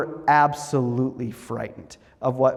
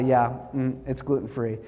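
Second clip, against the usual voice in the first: much softer, trailing murmur; soft, offhand reply; 3 semitones lower, 6 dB quieter than usual. Retold or imitated. Father quietly answering his son during communion, soft and evasive. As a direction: answer low without looking at him. Dad mutters answer without looking.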